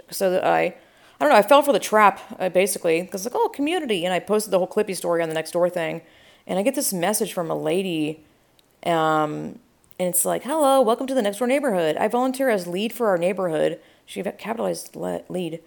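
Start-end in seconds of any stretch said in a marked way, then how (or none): 3.3-4.0 high-pitched naive coo; light, high mock enthusiasm; mock naive delight. Mocking herself falling for the trap. 10.4-13.8 higher, lilting greeter voice; lightly put-on community greeter; mock welcoming volunteer. Reads out neighborhood lead's welcome message.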